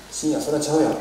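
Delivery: light Osaka-dialect retort, repeated for clarity; lightly voiced Osaka-ben no, that's wrong; casual Osaka dialect rebuke, barely acted. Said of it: "ちょっと大阪弁に 訳しているだけですけれども".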